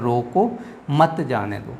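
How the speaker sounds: brief break after "रोको", then "मत जाने दो"; comma pause. Shown as a demonstration. Teacher repeats the comma example, pausing after "रोको". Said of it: "थोड़े समय के लिए रुकना हो".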